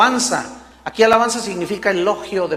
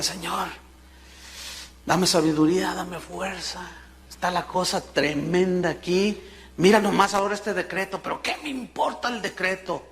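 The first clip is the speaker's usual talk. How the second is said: softer, murmured prayer; hushed prayer; 6 dB quieter than usual. Acted. Daniel kneeling to pray, soft hushed voice. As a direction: pray quietly to God. Daniel praying on his knees.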